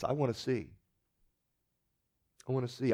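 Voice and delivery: soft, longing plea; quiet plea. Retold or imitated. Bartimaeus answering Jesus, soft earnest plea. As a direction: ask softly, almost to yourself. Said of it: "same answer as blind Bartimaeus".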